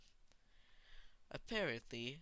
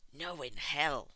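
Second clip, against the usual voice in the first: 1 firm refusal; 6 dB louder, slower than usual. A narrator's reading. Tomura refusing the hostage.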